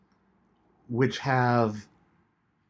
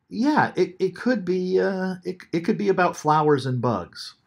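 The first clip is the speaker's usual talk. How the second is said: pitched higher, grudging "yeah, it could be"; mock reluctant concession; 8 semitones higher, 3 dB louder than usual. A teacher voicing a reader who has to grant the literal reading, grudgingly. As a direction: concede it with a raised, reluctant lilt. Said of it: "and not say".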